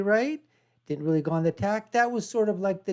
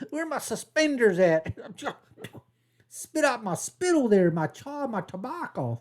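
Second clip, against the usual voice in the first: lightly hammed rural hick voice; mock hick accent. Mocking how he sees flyover country, mild hick accent. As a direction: play up the hayseed twang a little. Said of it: "they talk like this".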